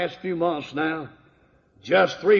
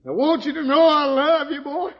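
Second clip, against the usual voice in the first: higher, gentle preacher voice; preacher telling sinner he loves him; tender preacher; 9 semitones higher, 3 dB louder than usual. Retold or imitated. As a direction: reach out with love.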